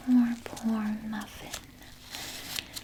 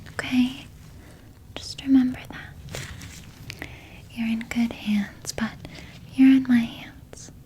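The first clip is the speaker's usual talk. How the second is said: veiled threat. Acted. Nurse warning the journalist about her article, menacing whisper. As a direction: let the kindness curdle into a warning.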